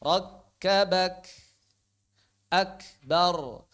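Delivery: "Rakkabak" with an aspirated final k; slow "akbar", puff of air after k; measured model, no added vowel in "akbar"; breath on kaf. Shown as a demonstration. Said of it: "ya begitu".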